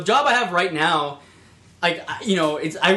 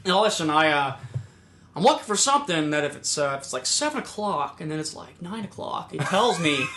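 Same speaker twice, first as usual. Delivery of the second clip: put-on old guy; 3 semitones lower, 4 dB quieter than usual. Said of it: "This old guy just walks on in".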